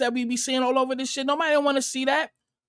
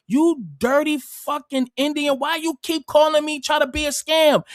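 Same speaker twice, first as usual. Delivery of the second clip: raised pitch, indignant telling-off; retold angry rant; 5 semitones higher than usual. Man retelling a fight with a scam caller, angry rant. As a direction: imitate chewing out a caller. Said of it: "I be so pissed off".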